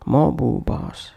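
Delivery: slow MOB BOSS with an "oo" between; extra vowel inserted. Shown as a demonstration. Teacher demonstrating a wrong pronunciation, extra vowel inserted. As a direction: stretch an "oo" after "mob", as in "mobu boss". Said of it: "avoid bringing any other sound between".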